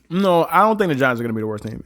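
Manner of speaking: talking with a mouth full; chewing chicken while talking. Real, not acted. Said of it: "I'm eating 'cause there's some good chicken".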